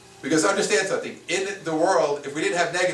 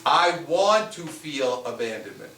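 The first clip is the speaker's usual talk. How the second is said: "I want to feel abandonment" slowed right down, each word weighed; slow emphatic repeat; slower than usual. Shown as a demonstration. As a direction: repeat it slowly so every word lands. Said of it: "You hear what I said?".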